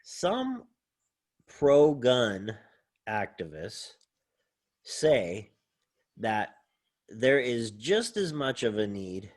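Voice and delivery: slow, deliberate delivery with pauses between words; measured, emphatic reading of a thesis point; formal presentation. Shown as a demonstration. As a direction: lay it out word by word like a formal argument. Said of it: "I'll present it like this".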